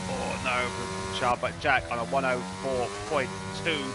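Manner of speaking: animated sim-racing play-by-play; live race commentary. Real, not acted. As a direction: call the action as it unfolds. Calls live race action.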